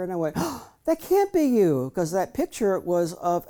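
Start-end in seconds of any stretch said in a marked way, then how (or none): 0.4-1.9 put-on much higher, slow little boy's protest; a small boy refusing to believe it; child disbelieving.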